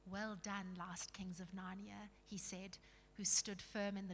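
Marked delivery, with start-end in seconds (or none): 0.1-2.1 softer, low-key commendation; solemn praise. Acted. Aslan greeting the last kings, quiet and solemn.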